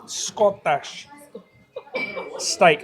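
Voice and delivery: put-on Scottish accent; name the dish in a mock Scottish accent. Presenter showing viewers the steak pie, mock Scottish accent. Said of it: "stop doing the Scottish accent".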